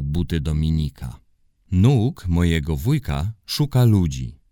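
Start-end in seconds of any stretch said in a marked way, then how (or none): 1.7-4.4 proud. Acted. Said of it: "powiedział z dumą Maciek".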